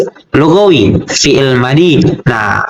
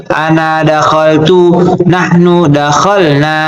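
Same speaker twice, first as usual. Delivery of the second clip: level-toned, measured recitation; steady classroom recital of Arabic forms; conjugation drill; slower than usual. Shown as a demonstration. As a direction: chant the verb table evenly on one note.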